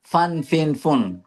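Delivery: ফান with a two-lip aspirated ph; ফিন puffed through both lips; ফুন said the Bangla way; Bengali ph. Shown as a demonstration. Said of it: "দুই ঠোঁট দিয়ে করে।".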